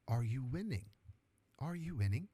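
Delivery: amateur impression of a South African accent; attempted South African accent. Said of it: "like, a South African accent, so I'm gonna give it a try".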